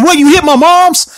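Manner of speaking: high-pitched mock indignation; imitated outraged challenge. Boyfriend confronting his girlfriend over mom, mock outrage. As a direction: act out an incredulous confrontation.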